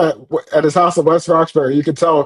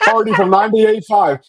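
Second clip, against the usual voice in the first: laughing; 5 semitones higher than usual. Real, not acted. Laughing while quoting Karen.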